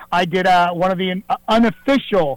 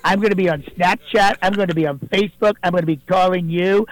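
a fairly close Donald Trump impersonation, boastful. Acted. Impersonator calling the radio show as the president, Trump voice. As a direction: do Trump bragging to the host, leaning on believe me. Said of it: "not President Donald Trump".

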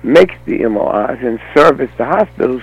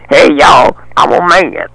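mock God yelling; 2 semitones higher, 6 dB louder than usual. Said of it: "But he did yell down and say".

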